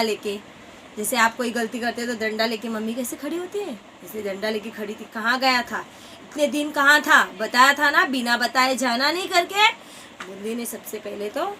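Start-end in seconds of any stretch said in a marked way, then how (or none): 5.1-9.7 a hint of a mother scolding, louder. Mother with stick scolding runaway son, mock stern. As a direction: tell off the runaway child.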